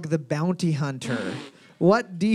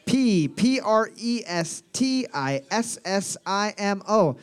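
slow spelling; slower than usual. Shown as a demonstration.

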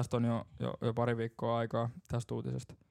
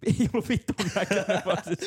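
talking through real laughter, higher at the end; laughing; 5 semitones higher than usual. Real, not acted. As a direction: crack up while insisting. Cracking up at own anecdote. (nauraen, naurun läpi puhuen)

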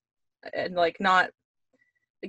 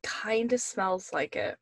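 whispering; 6 dB quieter, slower than usual. Real, not acted. Sniffing the cookie, hushed reply.

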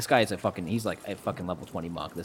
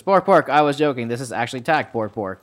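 higher, louder barking creature talk; a lightly voiced beast, louder; 3 semitones higher, 8 dB louder than usual. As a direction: bark out the words like an eager beast. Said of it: "Wolfish goes".

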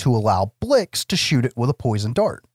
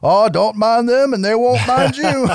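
mock easygoing local guide; swamp guide impression; 11 semitones higher, 4 dB louder than usual. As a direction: play the laid-back swamp guide. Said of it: "the local guide, swamp guy, ... he's like".

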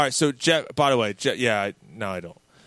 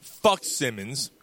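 abrupt; 2 semitones lower, much slower than usual. Retold or imitated. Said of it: "abruptly said".

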